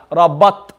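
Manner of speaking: Rabat with a stopped, silent final t; without qalqala. Shown as a demonstration. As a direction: cut Rabat off with no echo on the t. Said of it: "This is without qalqala".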